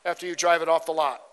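a touch of a smooth salesman; car salesman. Retold or imitated. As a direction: sell it like a slick car dealer. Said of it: "And he says".

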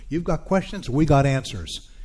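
light mock commercial read of the slogan; lightly voiced Radio Shack jingle line; quoting an ad slogan. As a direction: give it a hint of an old TV ad. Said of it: "Radio Shack used to have this commercial".

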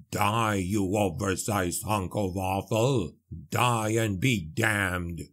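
low, slow gruff dwarf roar; a battle cry from deep in the chest; bellowing dwarf. A narrator's reading. Dwarf stabbing a creature underwater, gruff low battle cry. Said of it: "The dwarf bellowed".

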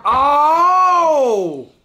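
high, loud "Oh!"; surprised shout; loud startled shout. Real, not acted. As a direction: cry out as the blast hits. Fan hits full blast.

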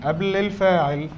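قبل الفاعل stretched out slowly; stress on قبل. Real, not acted. Teacher telling students where it goes, slow stress on قبل الفاعل. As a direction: draw out قبل الفاعل for the class.

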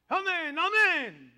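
loud, high, slow shouted amen. Acted. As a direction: shout it in his face. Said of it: "It's a shout".

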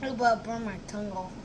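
speaking into a glass; muffled by drinking glass; glass at lips. Real, not acted. Seen 2: Glass rim held against lips throughout labelled words.

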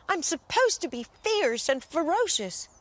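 high, timid little lamb voice; shivering lamb. Acted. Lamb wails at being changed, high and timid. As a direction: tremble with embarrassment. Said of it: "shivered the gentle little lamb".

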